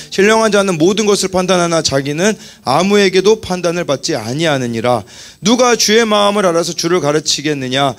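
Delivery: measured, even recitation of Bible verses; scripture reading aloud. Real, not acted. Preacher leading congregation in reading verses together, measured recitation. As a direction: read it out evenly for others to follow.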